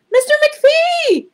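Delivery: slow, high, loud call down the hall. Acted. Injured librarian calling her colleague, slow high loud call. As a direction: call for help from far away. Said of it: "she called after a minute".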